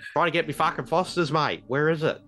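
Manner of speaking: hammed-up Aussie hunting for a beer; comic ocker Australian grumble; exaggerated Australian accent. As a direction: play a sweary, broad Australian. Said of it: "talking with the Australian accent".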